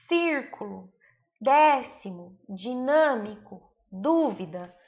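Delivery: word list, slowly, each third-last syllable stretched: aCÚStica, Álibi, ÂNgulo; stress on antepenultimate syllable. Shown as a demonstration. Teacher listing proparoxytones for pupils, each accented syllable drawn out and stressed. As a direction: punch and lengthen the accented vowel in each word, "Acústica" through "dúvida". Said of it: "Todas essas são a antepenúltima sílaba tônica".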